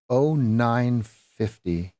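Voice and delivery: drawn out, each word spaced apart; slow and deliberate. Shown as a demonstration. Pointing out the entry time on the chart, slow and deliberate. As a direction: spell the price out slowly for the viewers.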